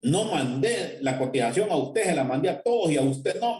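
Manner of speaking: high, hurried apology in a flustered woman's voice; desperate young woman. Retold or imitated. Purchasing clerk apologizing to the engineer, high and flustered. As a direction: play the panicked buyer owning her mistake. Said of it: "aquella muchacha desesperada me dice".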